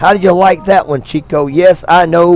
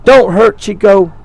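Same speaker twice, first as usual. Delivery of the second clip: high, loud holler from the crowd; hollering grandma; 5 semitones higher, 4 dB louder than usual. Retold or imitated. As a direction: yell it like a worried grandma in the stands. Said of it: "The grandma's hollering".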